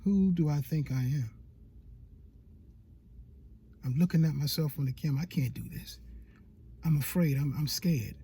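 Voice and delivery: low, hushed self-doubt; scared inner voice. Acted. Speaker plays your doubting inner voice before the camera, scared. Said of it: "Your voice is saying".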